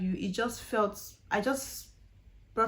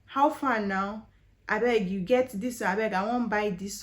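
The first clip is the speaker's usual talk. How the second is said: put-on Nigerian accent; 4 dB louder than usual. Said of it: "starts talking like a Nigerian".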